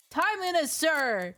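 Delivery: put-on high eager boy answering; little boy voice. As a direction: snap to attention as a small boy. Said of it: "my little boy voice".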